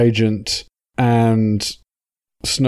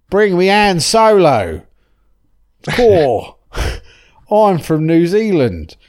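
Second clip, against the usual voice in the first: a hammed-up, mangled New Zealand accent, higher and louder; awful New Zealand accent; 6 semitones higher, 5 dB louder, slower than usual. Imitating a villain with a bad New Zealand accent, higher and louder. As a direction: fake a New Zealand accent badly, somewhere between Australian and South African. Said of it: "that's a pretty awful New Zealand accent".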